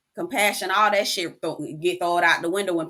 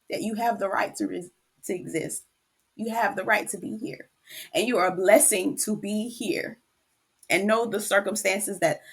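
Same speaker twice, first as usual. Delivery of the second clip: tender reassurance. Real, not acted. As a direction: reassure her gently as if she's listening. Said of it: "I'm about to cry".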